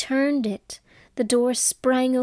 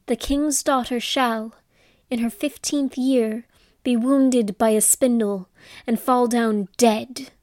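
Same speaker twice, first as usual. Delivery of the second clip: angry curse. Acted. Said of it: "So she cried out".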